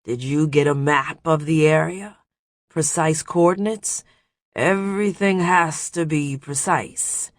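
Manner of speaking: put-on Brock's deep guttural accent; thick guttural foreign accent. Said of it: "deep and guttural accent of his".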